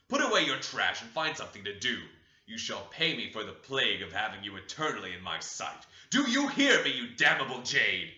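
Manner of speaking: loud, harsh tirade rising to a shriek; furious scolding. Acted. Heathcliff berating his idle daughter-in-law, loud and furious.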